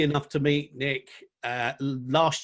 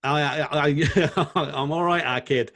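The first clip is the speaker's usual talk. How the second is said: laughing through the reply; jokey hello, breaking into laughs; amused banter; 3 semitones higher, 4 dB louder than usual. Real, not acted. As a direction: chuckle your way through a matey greeting.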